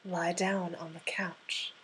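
slow, firm whispered order; firm whispered command. Shown as a demonstration. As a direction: command it, no longer asking. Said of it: "That wasn't a suggestion".

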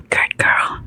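soft, whispery approval; satisfied praise. A narrator's reading. Narrator voices the man praising a partner, hushed and satisfied. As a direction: praise under your breath, satisfied. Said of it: "his voice dripping with satisfaction".

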